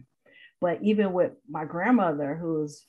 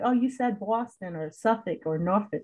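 mock Boston accent. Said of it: "the choppiness".

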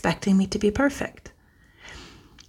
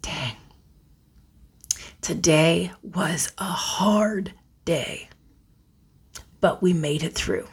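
gentle self-talk. Shown as a demonstration. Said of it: "It might start off with".

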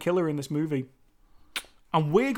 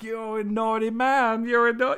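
naughty man meme voice; 2 semitones higher than usual. Retold or imitated. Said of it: "like that meme".

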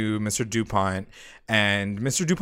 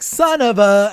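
clipped mock outburst, louder and higher; cut-off curse; 8 semitones higher, 8 dB louder than usual. Veronica cursing at news, cut-off outburst. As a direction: bite it off mid-curse. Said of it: "she's like".

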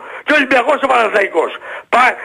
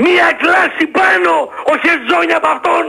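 heated insistence, pitch a little raised; real exasperated outburst; agitated raised voice; 3 semitones higher than usual. Real, not acted. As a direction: argue it hotly, getting worked up. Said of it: "Μη φωνάζεις".

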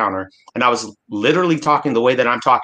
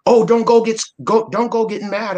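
high, louder mock voice of a scolding clerk; 12 semitones higher, 3 dB louder than usual. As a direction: mimic the shop clerk, pitched way up. Clerk scolding him at counter.

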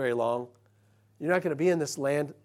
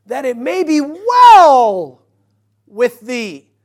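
slow, lofty, much higher and louder King James reading; scripture read aloud; 8 semitones higher, 17 dB louder, much slower than usual. Acted. Preacher reading the Bible verse to the congregation, slow and lofty. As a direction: intone the verse slowly like a preacher.

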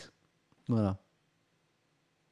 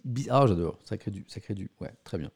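normal talking voice

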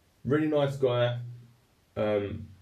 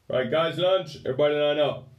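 higher, louder call to everyone; a touch of sheriff calling out; 5 semitones higher, 4 dB louder than usual. Retold or imitated. Sheriff calling the inmates to line up, loud higher call. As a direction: round the inmates up for lunch.

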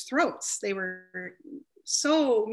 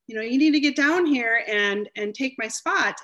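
higher, louder, pushy coworker voice; insistent demand; 3 semitones higher, 6 dB louder than usual. Retold or imitated. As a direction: act out the hungry tech demanding her lunch break. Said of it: "She goes".

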